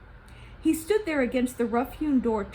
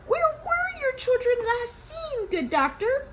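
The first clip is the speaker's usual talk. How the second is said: sly official Gozan; 13 semitones higher, 3 dB louder than usual. Acted. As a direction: drag out the bargain like a sly slug. Gozan's brisk question.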